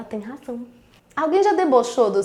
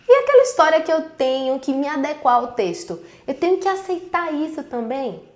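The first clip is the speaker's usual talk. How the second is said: acted indignation, a bit louder; indignant student; 2 semitones higher, 4 dB louder than usual. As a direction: voice a fed-up student protesting. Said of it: "A sua indignação, ela tá muito correta". (indignação encenada de aluno)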